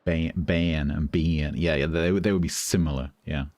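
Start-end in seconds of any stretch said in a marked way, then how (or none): 0.0-1.5 slow southern US diphthongs, bay-un and bee-un; American southern accent. Shown as a demonstration. Streamer comparing similar words, slow American southern accent. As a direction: stretch the vowels like an American southerner. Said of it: "in a southern accent, some vowels become diphthongs".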